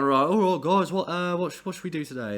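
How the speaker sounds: lightly voiced band members arriving at the studio; cheery bandmates. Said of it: "they're going".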